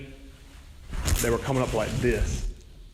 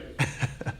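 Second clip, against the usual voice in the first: soft breathy laugh; 8 dB quieter than usual. Real, not acted. Laugh after the joke.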